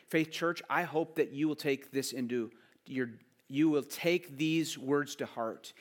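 normal talking voice

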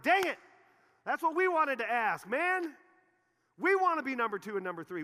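hammed-up sulky yell; mock frustrated outburst. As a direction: stomp your foot like a jealous kid. Disciples' jealous outburst acted.

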